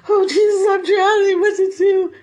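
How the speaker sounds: hammed-up drowning plea; mock panic. Peter sinking in panic.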